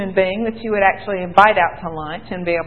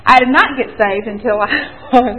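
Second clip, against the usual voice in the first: laughing; 4 dB louder than usual. Real, not acted. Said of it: "don't laugh at me".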